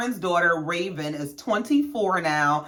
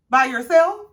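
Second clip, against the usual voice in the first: higher, rising question of disbelief; mock-incredulous query, lifting at the end; pointed questioning; 4 semitones higher, 4 dB louder than usual. Friend questioning an offer on a house, incredulous.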